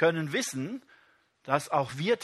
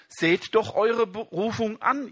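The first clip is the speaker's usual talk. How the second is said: slow, higher, louder, eure stressed; emphatic reading; 6 semitones higher, 4 dB louder than usual. Acted. Preacher reading Paul to the congregation, emphatic. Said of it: "Paulus sagt es uns".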